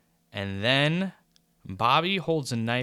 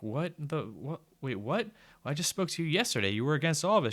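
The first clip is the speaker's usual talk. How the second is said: baffled disbelief; 5 semitones higher than usual. Retold or imitated. Narrator voices her own baffled reaction.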